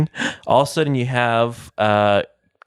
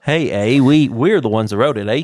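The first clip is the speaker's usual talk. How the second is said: mock Canadian accent with an Australian lilt; hammed-up Canadian accent drifting to Australian; 3 semitones higher, 4 dB louder than usual. Joking Canadians wrote the Wikipedia page, in a fake Australian Canadian accent. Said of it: "That was my Australian Canadian".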